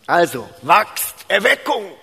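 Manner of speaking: kräftig gerufene, gedehnte Parole; lauter Aufruf. Pretend. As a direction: ruf es laut in die Gemeinde. Scherzhafter Aufruf an die Gemeinde. (scherzhafter Erweckungsruf, laut)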